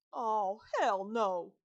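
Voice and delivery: sudden loud alarmed yell; startled shout. A narrator's reading. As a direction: blurt it out in fright. Dog bursts from cabinet.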